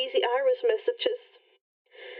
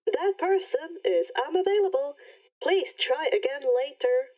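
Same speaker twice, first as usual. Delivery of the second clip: automated message. Acted. Rainbow rejects again.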